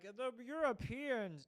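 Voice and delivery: drawn-out sneering "The Europeans"; mocking. To his audience, a slow sneer at Europeans. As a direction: say it like a dirty word.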